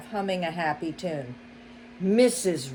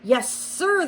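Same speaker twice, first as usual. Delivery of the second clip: butler reply; 10 semitones higher, 3 dB louder than usual. A narrator's reading. Butler answers.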